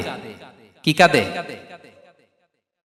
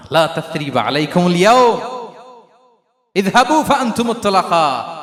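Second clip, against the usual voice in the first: proclaimed Arabic pardon. Acted. Prophet pardons Quraysh at Mecca.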